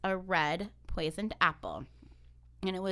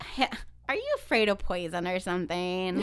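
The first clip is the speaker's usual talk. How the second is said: scoffing queen, building to loud incredulity; mocking; 5 dB louder than usual. Queen making fun of wary Snow White, mocking and taunting. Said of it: "makes fun of her".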